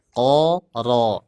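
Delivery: "Ko" tebal lalu "ro"; pancing "ro" dengan "Ko"; ko then ro. Shown as a demonstration. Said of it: "dinaikkan pangkal lidahnya". (ko lalu ro)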